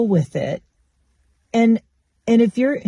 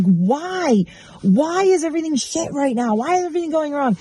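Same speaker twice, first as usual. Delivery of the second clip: higher, fast frantic whining; whiny complaining; 7 semitones higher than usual. Retold or imitated. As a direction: wail it like everything is against you. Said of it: "And I actually was like".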